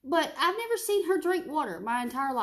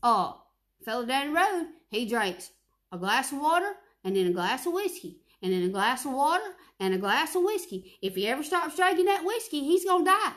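imitating daddy; 3 semitones higher, 3 dB louder than usual. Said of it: "He said".

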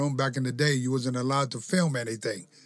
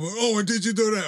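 accusing wrestler; 8 semitones higher than usual. Retold or imitated. Wrestler confronting Owen about the prank, high accusing. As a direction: confront him. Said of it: "the guy come".

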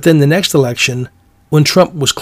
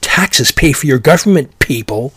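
imitating a snooty woman blurting it out; mock indignant blurt at protesters; 3 dB louder than usual. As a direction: blurt it out like a condescending reprimand. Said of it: "kinda blurted out".

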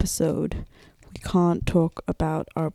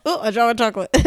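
giggly mock replay; laughing imitation; 2 semitones higher, much faster than usual. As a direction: repeat her words while laughing. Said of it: "That should be the start of the podcast".

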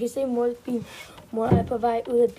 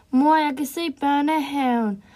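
higher-energy, louder call to mom; 3 semitones higher, 6 dB louder than usual. A narrator's reading. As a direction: call out eagerly so mom hears. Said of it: "råber til mor". (råber til mor)

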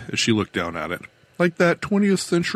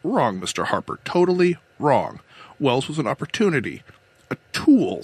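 lightly voiced woman captain, higher pitch; control captain, insistent; 4 semitones higher than usual. Captain defends her secret plan to her questioner, insistent. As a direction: correct him firmly, then explain with conviction.

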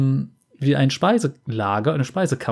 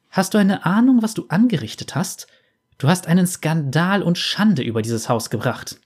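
scolding aunt; 4 semitones higher than usual. Acted.

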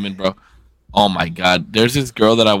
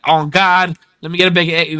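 lightly imitated New York street talk; mock East Coast slang; 4 semitones higher than usual. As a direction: toss off a mocking East Coast line. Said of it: "not the slang".

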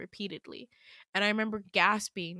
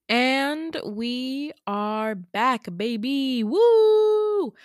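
loud, drawn-out comeback with a high whoop; excited; 4 semitones higher, 9 dB louder, much slower than usual. Real, not acted. Host welcoming listeners back from the break, excited. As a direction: stretch it out, then burst into a whoop.

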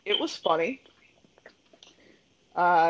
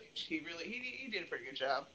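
far from mic; 16 dB quieter, faster than usual. Real, not acted. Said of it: "I'm having a hard time hearing you".

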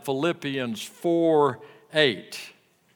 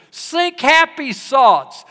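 put-on light German accent; 11 semitones higher, 7 dB louder, slower than usual. Echoing the German painter again.

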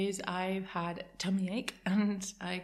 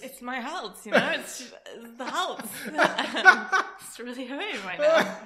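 giggling through the words; laughing; 5 semitones higher, 8 dB louder than usual. Real, not acted. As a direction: laugh while you say it. Laughing at her own Hals joke. (laughing at her own joke)

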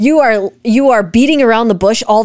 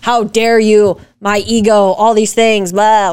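mock defensive husband; slower than usual. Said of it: "standing here saying".

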